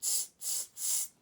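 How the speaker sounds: unvoiced tsk tsk tsk; monkey tsk. Monkeys mocking the peddler, clicking tongues back.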